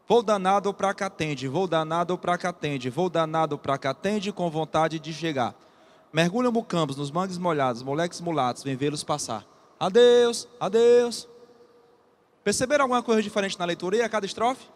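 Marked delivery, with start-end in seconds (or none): 0.1-5.6 steady, rolling verse rhythm; rhythmic poem recitation. Acted. Teacher recites train poem rhythmically. 6.1-9.4 bouncing short verses sinking lower at the end; rhythmic poem recitation. Acted. Teacher recites faster short verses. 9.8-11.3 loud, held, level-pitched train whistle call. Acted. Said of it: "O apito do trem".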